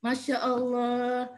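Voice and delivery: slow, drawn-out marvel; admiring acknowledgement. Shown as a demonstration. Mother answering child's allowance story, admiring acknowledgement. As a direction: stretch it out in calm admiration. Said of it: "kita jawabnya pernyataan juga".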